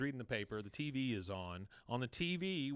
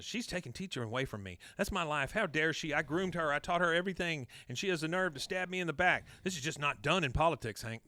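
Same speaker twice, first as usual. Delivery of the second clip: higher, louder aggrieved outburst; indignant rant; 5 semitones higher, 4 dB louder than usual. Acted. Peggy complains to Hank about being betrayed, indignant. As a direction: build into wounded outrage, pitch climbing.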